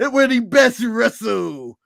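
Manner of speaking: slow, mock-shouted Triple H catchphrase. Podcaster mimics Triple H's promo, slow mock shout. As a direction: ham up the wrestling boss slowly. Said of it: "I'm doing the Triple H".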